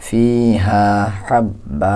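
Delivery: ফিহা হাব্বা in a recitation tone, হাব্বা with a rising end; recited model reading. Shown as a demonstration. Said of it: "এভাবে". (তিলাওয়াতের সুরে ফিহা হাব্বা)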